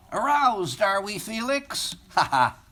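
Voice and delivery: teasing chortle ending in a loud ha ha; mock the boy with a cackling laugh; chortling. Gum-chewing girl teasing Felix, chortling. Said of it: "she chortled".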